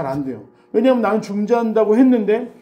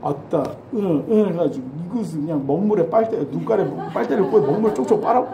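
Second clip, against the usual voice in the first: Jeolla sergeant. Retold or imitated. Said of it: "전라도 고창이라는 군무를 쓰잖아요".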